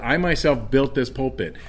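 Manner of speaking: "myself" lightly stressed. Shown as a demonstration. Preacher's pulpit example, stressing "myself". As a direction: give "myself" the weight. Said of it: "placing a lot more emphasis".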